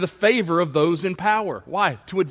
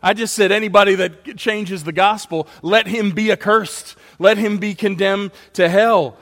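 rising, louder, incredulous indignation; indignant; 4 semitones higher, 3 dB louder than usual. Acted. Paul indignant at critics who doubt his message, louder. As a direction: hammer home the curse, a bit higher and louder. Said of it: "He's almost going".

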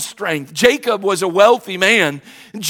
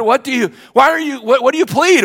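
higher, brisk judge's questions; mock judge; 5 semitones higher than usual. Pastor voicing the judge asking his plea, higher. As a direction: play the impatient judge. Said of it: "judge asking in retold scene".

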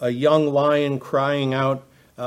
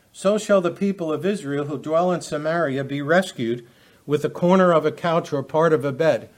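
steady, raised pulpit reading voice; scripture reading; 2 semitones higher than usual. Acted. Preacher reading Micah to his listeners, raised reading voice. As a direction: declaim the verses to the congregation. Reads Amos verse aloud.

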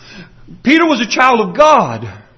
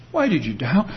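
tender question; 6 semitones lower, 8 dB quieter than usual. Shown as a demonstration. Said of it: "Can you hear it that way?".

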